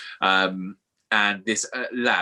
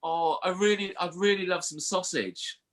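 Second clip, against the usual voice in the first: higher, softer put-on wistful voice; acted pleading, pitched up and soft; longing lad; 8 semitones higher, 3 dB quieter than usual. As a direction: imitate a lad yearning for food. Voicing the lad craving food.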